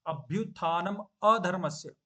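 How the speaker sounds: अधर्मस्य with a clear a at the start; a sound added. Shown as a demonstration. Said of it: "उसमें clearly आता है".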